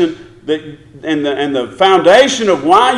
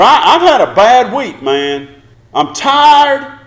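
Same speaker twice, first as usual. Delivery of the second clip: mock whining excuse; 5 semitones higher, 4 dB louder than usual.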